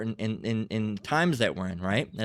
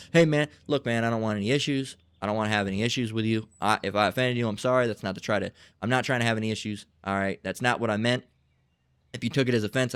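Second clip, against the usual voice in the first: acted placating apology, a little lowered; calming down; 3 semitones lower than usual. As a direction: back out of a fight with quick, easy apologies. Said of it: "calming the situation down".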